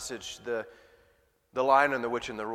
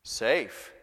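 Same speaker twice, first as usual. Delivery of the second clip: Mister Beaver. Acted. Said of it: "said Mister Beaver".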